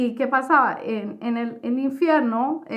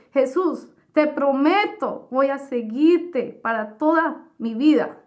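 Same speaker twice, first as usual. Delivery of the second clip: fervent vow; 3 semitones higher, 3 dB louder than usual. Retold or imitated. Final vow to Jesus.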